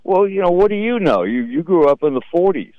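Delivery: lightly voiced bratty kid; mocking kid talking back. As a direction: toss it back like a smart-aleck kid. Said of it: "I used to go".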